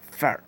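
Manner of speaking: "Far" with a long A; lengthened A. Shown as a demonstration. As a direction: draw out the vowel in "Far". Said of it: "significan que ese sonido se alarga". ("Far" con la A alargada)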